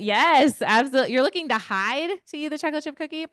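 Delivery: audience's inner voice craving the cookie; eager yes. Pretend. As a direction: gleefully give in to temptation. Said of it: "voicing listener's eager thought".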